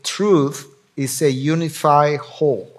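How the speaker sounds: slow, careful English: "Truth is a unified whole."; English quote. Shown as a demonstration. Preacher quoting the English phrase to the congregation, slow and careful. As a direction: read the English line "Truth is a unified whole." slowly and clearly. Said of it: "en inglés se dice".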